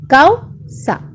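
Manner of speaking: slow, split into syllables. Shown as a demonstration. Teacher sounding out causa for the class. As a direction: sound out cau-sa slowly. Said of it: "vamos a silabear la palabra causa".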